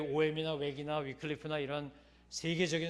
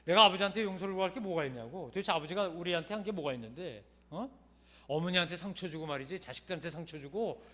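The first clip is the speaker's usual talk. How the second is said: louder, indignant retelling of his fury; retold angry outburst; 3 semitones higher, 7 dB louder than usual. Son bursting out angrily at the old missionary's question, loud and indignant. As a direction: relive the son's anger, pushing each line out hard. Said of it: "막 화가 나더래".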